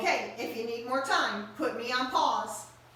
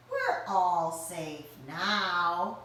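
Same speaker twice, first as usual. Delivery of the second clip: slow reassuring; 3 semitones lower, much slower than usual. Acted. Owl reassuring.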